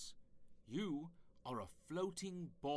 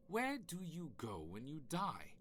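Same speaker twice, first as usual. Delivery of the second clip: grand narrator reading an afterlife welcome; solemn intro read. Acted. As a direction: read it like a lofty film trailer over music. Reads solemn afterlife intro over music.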